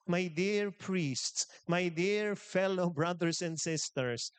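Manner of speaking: slow, earnest My dear priests; slow solemn address. Real, not acted. Preacher solemnly addressing priests and faithful, slow and sincere. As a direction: address them slowly and sincerely.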